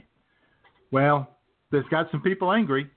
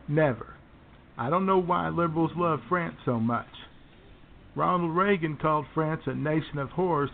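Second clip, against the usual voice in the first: lightly voiced blustering right-wing radio host; Lush Bimbo. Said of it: "our very own, uh, Lush Bimbo".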